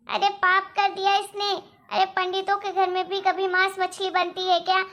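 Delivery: loud, indignant accusing; angry complaint. Acted. Mother-in-law complaining to husband about the chicken, angry and loud. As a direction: pour out the outrage.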